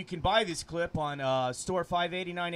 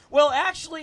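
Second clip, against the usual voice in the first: demon voice; 9 semitones higher, 11 dB louder than usual. Acted. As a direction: growly voice from the pit. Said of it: "that's kinda my demon voice".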